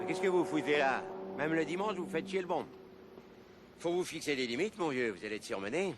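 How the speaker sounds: put-on gruff, grumbling old man; grumpy old man. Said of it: "earlier note: grumpy old man".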